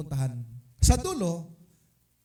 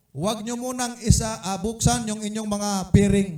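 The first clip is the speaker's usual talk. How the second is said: raised, higher call to the group; calling out an instruction; 5 semitones higher, 7 dB louder than usual. Retold or imitated. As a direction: announce it loudly to the blindfolded members. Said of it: "ang sabi ko". (malakas na pag-uutos sa grupo)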